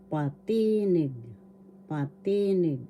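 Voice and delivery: "patinig" with a long, stressed ti; stress on second syllable. Shown as a demonstration. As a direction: stretch the middle ti of "patinig" for learners. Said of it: "The accent is in the".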